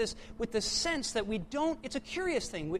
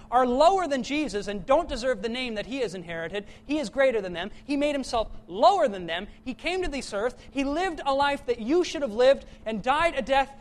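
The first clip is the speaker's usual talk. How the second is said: louder, driving sermon climb; preaching at full force; 3 dB louder than usual. Acted. Pastor urging the congregation, louder and driving. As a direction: preach it home to the crowd.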